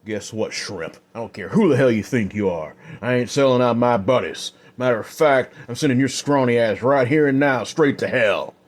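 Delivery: loud, fast, defiant threat; defiant outlaw. Acted. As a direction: spit the threat back at him. Flynn defies Adam.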